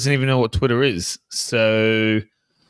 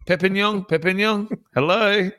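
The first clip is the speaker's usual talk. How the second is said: slow, hammed-up French accent, a bit higher; mock French accent; 5 semitones higher than usual. Sacked coach pitching Super League clubs, mock French accent. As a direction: play a cheesy French coach greeting in a French accent. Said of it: "I didn't think you were doing accents anymore".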